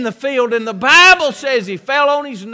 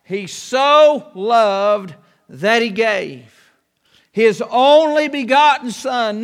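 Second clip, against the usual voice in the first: slow, weighty; slower than usual. Shown as a demonstration. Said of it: "not just a".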